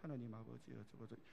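low, very soft, lifeless mumbled prayer; imitation of a feeble prayer; weak, wrong prayer. Shown as a demonstration. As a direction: drop the voice and trail off limply. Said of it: "이렇게 기도하면요, 안 돼".

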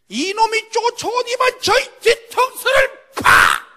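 훨씬 높고 크게, 느리게 외치기; 뒤통수 맞은 충격을 터뜨리듯; 극적인 외침. Acted. 맞은 순간을 극적으로 재연. (훨씬 높고 크게 외치는 극적인 재연)

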